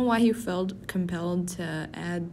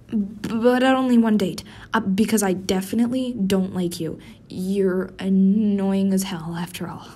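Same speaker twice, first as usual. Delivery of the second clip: defensive denial; 3 dB louder than usual. Acted. Tsundere denial after accepting.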